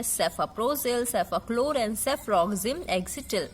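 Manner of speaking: each name drawn out syllable by syllable; slow drug names. Shown as a demonstration. Teacher slowly pronouncing drug names for students. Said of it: "जैसे मैं pronounce करती हूँ वैसे".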